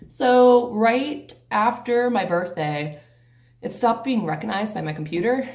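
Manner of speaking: out of breath from the stairs; winded, catching breath. Real, not acted. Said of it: "I'm, like, out of breath".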